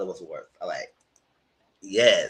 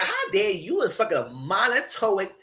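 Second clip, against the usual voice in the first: mock scolding; 5 semitones higher than usual. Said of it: "'cause I said".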